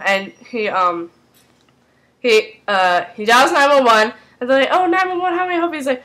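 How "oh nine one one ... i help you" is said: high-pitched phone operator greeting; lightly acted dispatcher; mock emergency operator. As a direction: answer the call in a raised, put-on voice. Acting emergency operator answering call.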